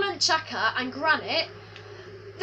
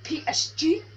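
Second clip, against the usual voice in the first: put-on French accent. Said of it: "I'm talking in the French accent".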